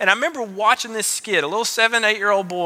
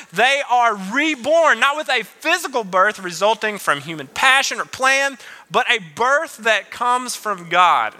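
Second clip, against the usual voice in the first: scripture reading; 3 semitones higher than usual. Acted. Reads scripture slowly.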